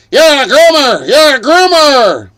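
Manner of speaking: high, loud shrieked accusation; accusing yell. Retold or imitated. Snafu Snaps shrieking accusations at Hank. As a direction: scream the accusation at him. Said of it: "Snafu's like".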